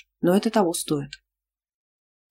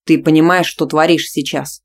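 through teeth; 6 dB louder than usual. Acted. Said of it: "процедил Тимофей".

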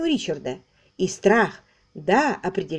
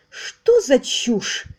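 drawn-out, higher exclamation; slow, raised cry of disbelief; exclaiming; 5 semitones higher, 3 dB louder, much slower than usual. Acted. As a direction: scoff at the nonsense, stretching it out. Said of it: "воскликнула Элла".

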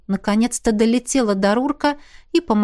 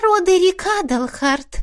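cold; 9 semitones higher than usual. A narrator's reading. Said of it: "холодно повторила она".

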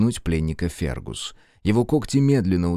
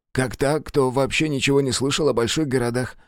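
lightly higher, defensive prisoner; justifying himself; 5 semitones higher than usual. Acted. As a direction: excuse yourself hurriedly. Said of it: "начал оправдываться Джейкоб".

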